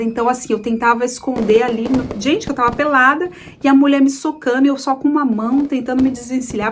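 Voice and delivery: usual speaking voice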